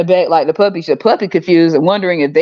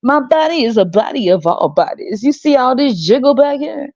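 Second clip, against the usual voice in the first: imitating Chloe; 4 semitones higher than usual. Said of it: "letting you know she was a grown woman".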